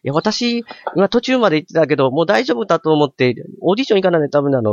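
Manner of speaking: lightly imitated sister in standard Japanese; 標準語の妹を軽く真似て言い返す; 標準語の妹. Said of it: "標準語なんですよ". (標準語で兄に答える妹の物真似)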